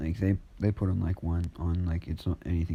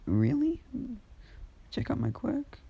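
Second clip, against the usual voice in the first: put-on high, eager little boy voice; excited boy. Boy thrilled to check his quirk, high and eager. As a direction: bounce with a child's glee.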